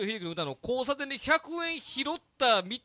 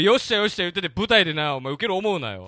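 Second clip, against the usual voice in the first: mock scolding; 9 dB louder than usual. Mock scolding a junior comic.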